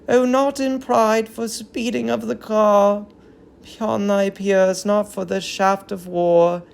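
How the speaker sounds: solemn tragic verse, lightly voiced; a hint of an old queen grieving; grieving queen's lament. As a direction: mourn the fallen city in measured verse. Hecuba mourns over the child.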